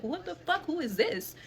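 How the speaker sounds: high-pitched incredulous questions; shocked. Retold or imitated. Daughter stunned at dad defending cousin, shocked. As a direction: re-enact being stunned, pitch jumping up. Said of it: "I was, I was shocked".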